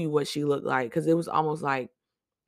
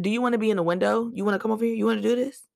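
irritated challenge; 7 semitones higher, faster than usual. Retold or imitated. Confronting shift leader again, fast.

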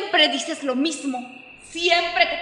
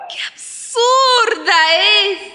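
loud, higher scornful taunting; mocking; 3 semitones higher, 5 dB louder than usual. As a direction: sneer at her, mocking. Mother's voice mocks the girl.

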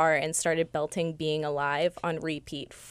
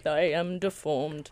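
Frollo voice; 3 semitones lower, 5 dB quieter, slower than usual. Retold or imitated. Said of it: "he had a sick voice".

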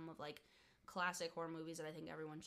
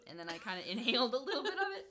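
fast, louder, giggling through it; laughing while explaining; 3 semitones higher, 9 dB louder, faster than usual. Real, not acted. Explaining she inhaled coffee, laughing. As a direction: rush it out laughing.

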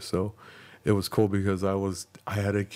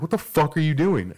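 higher, louder mock cop yell; retold angry shout, pitched up; imitated yelling; 7 semitones higher, 5 dB louder than usual. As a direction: yell it like an officer confronting a driver. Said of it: "Like, yelling at me".

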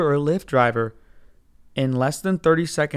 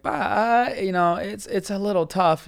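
defensive justifying voice; 4 semitones higher, slower than usual. Retold or imitated. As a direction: hedge it higher, imitating a self-justifying driver. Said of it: "That's the voice he's doing".

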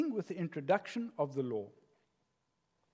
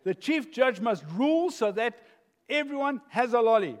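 inner judge voice; 5 semitones higher, 6 dB louder than usual. Acted.

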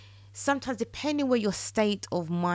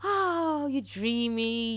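high swooning oh, slow dreamy sigh; swooning fan; 4 semitones higher, slower than usual. Retold or imitated. Teen fan gushing over a boy band poster, high swooning. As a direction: gush over a poster crush. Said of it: "and you're".

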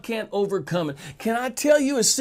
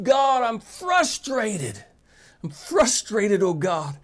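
frustrated prayer. Retold or imitated. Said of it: "Some of you are frustrated".

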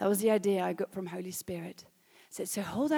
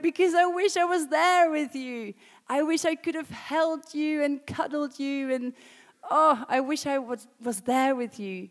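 higher, louder, aching; tearful wish; 4 semitones higher, 4 dB louder than usual. Retold or imitated. Mother answering her daughter, tearful and higher. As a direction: plead it through tears. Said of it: "I'm like".

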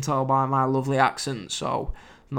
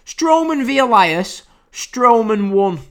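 slow, louder, higher mock-solemn reading of his notes; deadpan notes reading; 7 semitones higher, 7 dB louder, slower than usual. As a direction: drily announce the whole note as if it were a verdict. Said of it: "this is my notes for this match".

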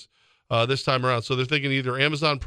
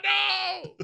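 much higher, shouted plea; mock plea; much slower than usual. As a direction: grandchild shouting to stop grandpa subscribing. Acted plea to grandpa.

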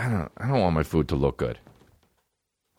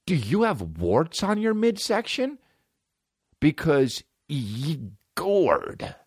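dumb guy voice; 9 semitones higher, slower than usual. Retold or imitated. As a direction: talk like a dopey bro. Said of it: "that guy".

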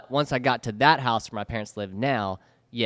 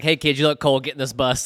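bus driver; 4 dB louder than usual. Retold or imitated. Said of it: "the bus driver's like".

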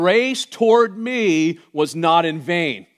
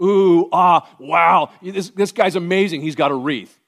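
mock awed crowd; 4 semitones higher, 7 dB louder than usual. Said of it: "People looked at you and went".

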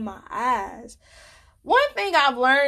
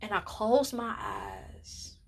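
whisper; 8 dB quieter, slower than usual. Real, not acted. Emotional memory of lying in bed.

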